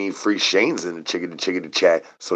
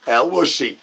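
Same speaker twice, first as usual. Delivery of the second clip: high announcer name call; 7 semitones higher than usual. Acted. Crowning the champion in a high ring announcer call. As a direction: belt the name out like a fight announcer.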